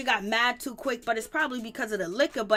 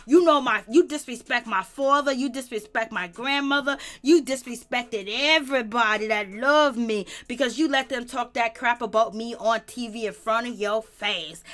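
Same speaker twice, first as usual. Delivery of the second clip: mock angry Brianna; 4 dB louder than usual. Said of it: "Brianna was like".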